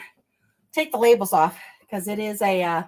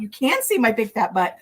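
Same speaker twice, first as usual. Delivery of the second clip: laughing. Real, not acted. Embarrassed on camera, laughing.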